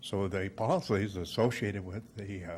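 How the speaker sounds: breathless, pausing often between words; short of breath. Real, not acted. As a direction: speak short of breath, gasping between phrases. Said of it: "I'm a little short of breath".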